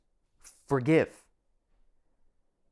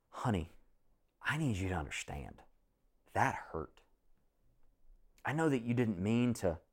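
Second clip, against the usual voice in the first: gentle loving rebuke. Pretend. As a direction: reassure her while naming the hurt. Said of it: "It's another thing to go".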